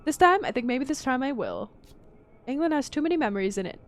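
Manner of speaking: a hint of a genteel old lady, wistful; understated grand dame, a little regretful; elderly lady character. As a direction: lightly play the aging society lady looking back. Voices Lady H in the game.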